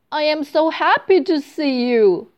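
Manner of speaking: high, loud and overjoyed; mother greeting her child with delight; joyful cry. A narrator's reading. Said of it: "cries her mother".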